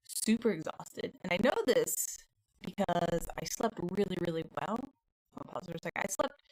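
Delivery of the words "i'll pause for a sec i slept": glitchy robotic audio; robot voice from a camera glitch. Real, not acted. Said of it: "I sound like a robot".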